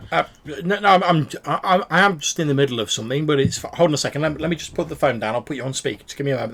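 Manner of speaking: a busy woman juggling the phone, hurried; flustered NPC. Acted.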